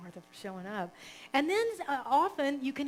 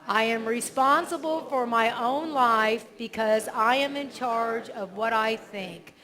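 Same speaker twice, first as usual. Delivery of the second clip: repeated affirmation; 7 dB louder, slower than usual. Shown as a demonstration. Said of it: "Sean can repeat it".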